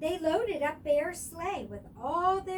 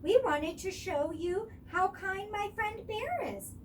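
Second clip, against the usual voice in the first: hopeful; 7 semitones higher, 4 dB louder than usual. A narrator's reading. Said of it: "Coco said very hopefully".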